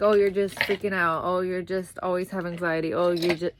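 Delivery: mock the partner's dismissive scolding. Partner brushing off her anxiety, impatient and dismissive. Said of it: "not in a way that you".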